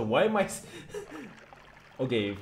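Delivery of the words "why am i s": high, laughing break-off; bursting laugh. Real, not acted. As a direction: laugh at the absurdity. Laughs at absurd physics.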